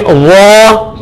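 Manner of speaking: "وہ" as a heavy dhaw; emphatic whistle-free z in "وہ"; thick rounded dh. Shown as a demonstration. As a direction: round the mouth, tongue on the teeth, for "وہ". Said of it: "تھوڑا سا منہ گول کریں گے".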